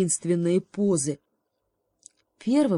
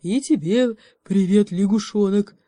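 good-natured greeting; 4 semitones higher, 8 dB louder than usual. Acted. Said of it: "добродушно сказал медведь".

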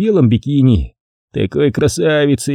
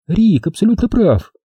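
higher, eager agreement; fervent; 9 semitones higher than usual. A narrator's reading. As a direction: jump in with passion. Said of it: "с жаром подхватила Кэти".

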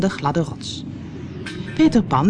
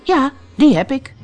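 put-on high, louder boyish reply; Peter Pan's own voice; 8 semitones higher, 5 dB louder than usual. A narrator's reading. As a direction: lift it into a light boy hero's voice. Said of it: "nu met zijn eigen stem".

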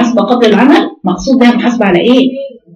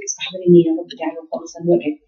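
soft murmured prayer, much softer; quiet private prayer; 2 semitones lower, 7 dB quieter, faster than usual. Pretend. A woman praying privately to herself, soft and hushed. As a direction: pray inwardly, almost under the breath. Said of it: "بينك وبين نفسك".

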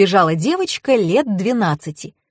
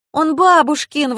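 higher-pitched, drawn-out protest; indignant; 8 semitones higher than usual. A narrator's reading. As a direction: object as if affronted. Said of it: "возмутилась Таня".

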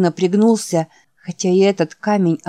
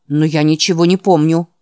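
sharper, louder cut-off ending; abrupt finish; 5 dB louder than usual. Acted. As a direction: end it curtly, closing the subject. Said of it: "резко закончил он". (резко, обрывая разговор)

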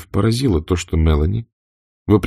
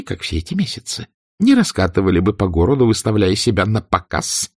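cold hatred; 7 semitones higher than usual. A narrator's reading. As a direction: spit each accusation coldly. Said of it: "в голосе её звучала холодная ненависть".

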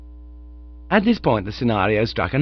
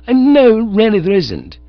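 much higher, louder yelp; alarmed protest; 11 semitones higher, 9 dB louder than usual. Acted. Bertie protests to Honoria, loud and alarmed. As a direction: blurt a panicked denial.

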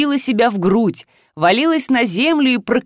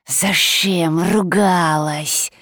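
hissing creature; 2 semitones lower, much slower than usual. Acted. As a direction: hiss the question like a monster. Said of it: "прошипела лихо".

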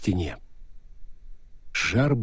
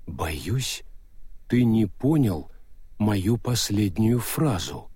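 Death's voice; slower than usual. Acted. Death replies.

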